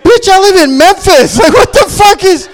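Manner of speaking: very high, loud, slow comic yell; outraged retort. Retold or imitated. Comic answering coworkers' warning, yelling in outrage. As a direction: yell it back in mock outrage.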